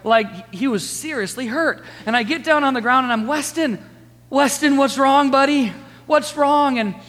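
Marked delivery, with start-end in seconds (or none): 3.2-6.8 worried dad. Retold or imitated. Dad kneels by screaming toddler.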